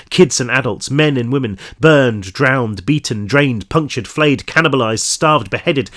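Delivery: measured audiobook-style story reading; story narration. A narrator's reading. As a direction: read the crime story aloud to listeners. Reads story aloud.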